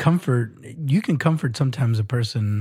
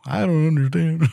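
put-on old man voice. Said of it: "that was my old man voice".

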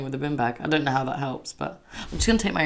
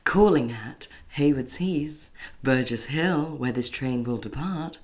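train announcer voice; 5 dB quieter, slower than usual. Retold or imitated. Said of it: "you know when it goes".

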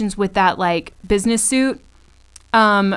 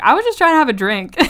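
mock innocent protest; 4 semitones higher, 4 dB louder, much faster than usual. Acting out Sarah's innocent protest.

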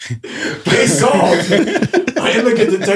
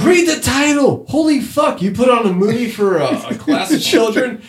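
high, raised exasperated rant; exasperated scolding; 6 semitones higher than usual. Real, not acted. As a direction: tell the teacher off in disbelief. Scolding the absent teacher.

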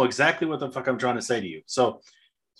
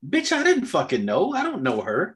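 exasperated outburst; 6 semitones higher, slower than usual. Retold or imitated. Exasperated outburst at imagined accuser.

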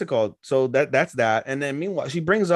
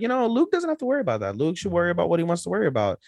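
high, fast maid voice; high quick maid defending Luke; 6 semitones higher, faster than usual. Retold or imitated. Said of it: "was like".

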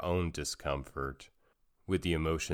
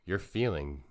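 put-on soft, calm words for a crying child, quieter; gentle comfort to a child; 4 semitones lower, 5 dB quieter than usual. Shown as a demonstration. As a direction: ease the feeling by naming it gently. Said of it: "I would probably say something like".

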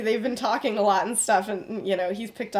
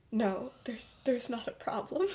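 mock whisper, soft and breathy; quiet, evasive denial; hushed denial; 7 dB quieter than usual. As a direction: half-whisper it as if hiding something. Sirius denying, hushed.

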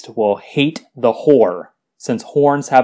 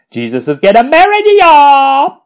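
excited; 14 semitones higher, 7 dB louder than usual. Acted. Announcing the wedding excitedly.

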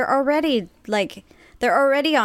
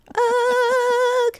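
dry mouth groan. Real, not acted. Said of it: "my mouth is so dry today".

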